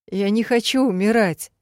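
put-on loud, high childlike whimper. Dying Ned refuses to die, loud childlike whimper. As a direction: wail like a scared child. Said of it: "хныкал Комдор".

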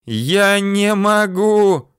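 high, drawn-out desperate cry; long, high howl of refusal; wailing shout. A narrator's reading. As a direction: scream it slowly in a high girl's voice. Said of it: "прокричала девочка".

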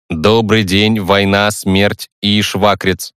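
metallic hologram voice, last words slow. Acted. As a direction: speak like a metallic machine. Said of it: "металлическим голосом произнесла три дэ-голограмма".

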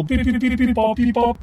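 imitated computer beeps.

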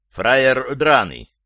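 contemptuous, attacking "Фраер драный", slow and loud; russian prison slang. Shown as a demonstration. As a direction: spit out "Фраер драный" like a tough boss. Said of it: "Вот, уже ближе".

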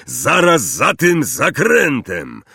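high, drawn-out call; shouted over shoulder. A narrator's reading. Hagrid leading first-years round the bend, calling out. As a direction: call back to those following. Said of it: "krzyknął Hagrid przez ramię".

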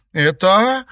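high, startled gasp of a question; stunned disbelief; girl astonished to see her lost boyfriend. A narrator's reading. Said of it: "изумлённо произнесла Наташа".

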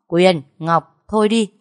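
a mother barking her two quarrelling daughters to stop; sharp call to stop. Acted. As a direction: stop them dead, firm and loud. Mother stops daughters' fight.

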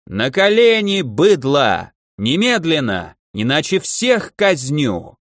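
bellowing arrogant command, last words slow; yelling order. Acted. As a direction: shout down at the peasants. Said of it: "поэтому брал голосом". (надменный крик)

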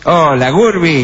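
slow, put-on old cartoon voice; 1930s cartoon. Shown as a demonstration. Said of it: "Más de dibujo animado". (voz de dibujo animado de los años treinta)

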